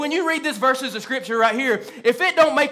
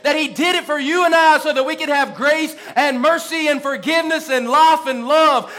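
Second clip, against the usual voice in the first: rising sermon cadence, pressing each phrase; fervent preaching. Acted. Pastor preaching Calvary to his congregation, fervent. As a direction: preach it with conviction.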